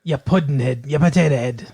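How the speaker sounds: Irish name-calling, lightly put on; hammed-up Irish brogue; mock Irish God. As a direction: hurl silly insults in mock Irish. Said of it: "I'm Irish, God".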